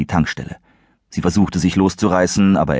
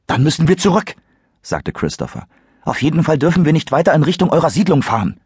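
put-on higher, earnest teen boy voice; Christopher, worried; 10 semitones higher than usual. Christopher urges them to turn back, worried and higher. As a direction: urge the others to turn back.

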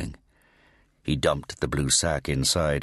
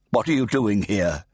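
fat Redeemer; 4 semitones higher, 3 dB louder than usual. A narrator's reading.

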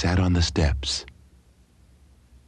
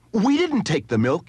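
blurted out; 10 semitones higher than usual. A narrator's reading. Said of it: "he blurted".

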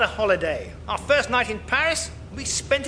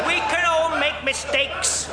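mocking echo; 4 semitones higher, slower than usual. Throws partner's excuse back.

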